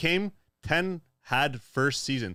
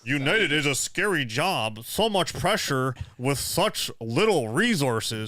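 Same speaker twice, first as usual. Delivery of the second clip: put-on voice reading chat; 3 semitones higher, slower than usual. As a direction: read the chat in a silly voice. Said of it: "Voices are crazy".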